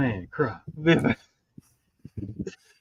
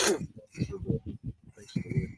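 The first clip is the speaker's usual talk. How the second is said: put-on high old lady voice; 12 dB quieter, slower than usual. Mimicking grandma.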